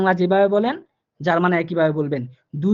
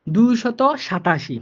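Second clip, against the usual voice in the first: slow, clear repeat of the number; careful dictation pace; 3 semitones higher, slower than usual. Shown as a demonstration. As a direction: say it again slowly for the student. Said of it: "ঠিক আছে, repeat করতেছি।".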